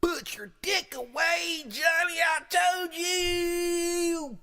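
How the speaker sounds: high, loud screeching wife; hammed-up furious shriek at the husband; screaming wife. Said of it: "kicking in the door".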